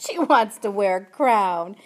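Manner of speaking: loud, drawn-out jeer; uncle's scornful hoot; mocking laughter. A narrator's reading. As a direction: ridicule her wish, slowly and loudly. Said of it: "He laughed harder".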